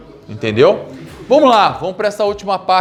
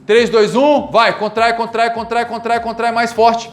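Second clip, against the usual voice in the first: urging coach; 3 semitones higher, slower than usual. Shown as a demonstration. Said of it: "com intensidade máxima".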